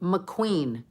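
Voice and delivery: soft, hushed name; very quietly. Retold or imitated. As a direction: imitate a faint voice heard in your head. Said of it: "very quietly, listen to this".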